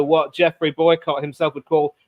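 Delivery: light Yorkshire accent, a passing Boycott imitation; Geoffrey Boycott Yorkshire impression. To his co-host, quoting Boycott, in a light mock Yorkshire accent. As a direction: lean lightly into broad Yorkshire vowels. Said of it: "Yeah, good impression".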